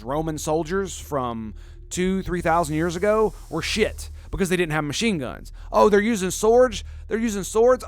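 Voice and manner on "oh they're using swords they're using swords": incredulous mock question, pitched up; mocking disbelief. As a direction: scoff at them like a snob. Mocking ancient armies.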